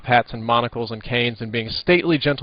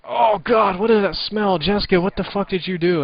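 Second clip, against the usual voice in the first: mock disgust; 9 semitones higher, 4 dB louder than usual. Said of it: "I was like".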